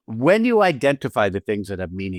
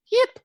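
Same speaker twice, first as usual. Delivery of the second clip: imitated little dog yip. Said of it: "barks at us like".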